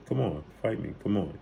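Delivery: soft, understated mock plea; retold coaxing, kept soft; pleading quote. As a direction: quietly imitate someone pleading for a fight. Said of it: "He's pleading with him".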